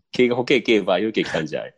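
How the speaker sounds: laughing through a quick Okayama dialect impression. Host jokingly imitating Okayama locals for his cohost, in Okayama dialect. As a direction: rattle it off like an Okayama local, giggling. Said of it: "岡山弁は平坦なのことで有名だから".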